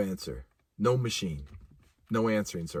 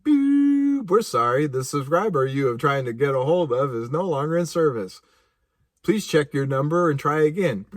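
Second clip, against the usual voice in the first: recorded operator message. Retold or imitated. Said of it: "It's like".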